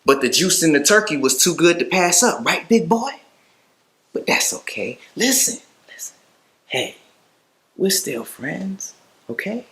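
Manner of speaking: high-pitched, swooping mock friendliness; mocking taunt. Captor telling a snitch they are still friends, mocking. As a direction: toy with them in a high, coaxing voice.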